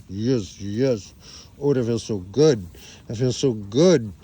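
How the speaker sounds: hammed-up sheep loving a scratch; lightly voiced animal groaning with pleasure; blissed-out sheep. Voicing sheep enjoying a scratch.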